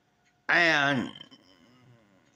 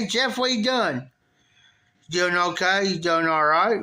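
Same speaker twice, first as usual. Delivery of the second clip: a friendly, polite hello, only hinted at; nice and polite. Retold or imitated. Stepdaughter greeting him kindly in passing, a light polite imitation. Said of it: "Real nice, polite".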